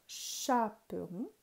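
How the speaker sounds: "chaperon" with a drawn-out first syllable "cha"; slow down "chaperon" to bring out the opening "cha"; teacher isolating "cha" at the start of "chaperon"; first syllable picked out. Shown as a demonstration. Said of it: "je cherche chat".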